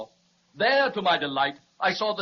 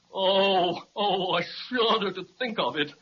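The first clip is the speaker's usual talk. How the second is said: shuddering. Acted. Dragon recalls the witch.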